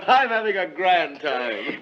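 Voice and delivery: chuckling through the words; laughing. Real, not acted. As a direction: laugh as you say it. Laughing while he speaks.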